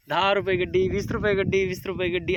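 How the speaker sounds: loud, high market hawker's cry; vendor's call. Shown as a demonstration. Father showing his son how to call out prices. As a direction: shout the price like a street vendor. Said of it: "असं वरडायचं काय तू".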